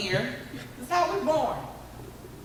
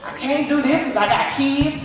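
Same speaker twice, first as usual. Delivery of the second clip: louder excuse; 3 dB louder than usual. Retold or imitated. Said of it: "I'm giving all these excuses".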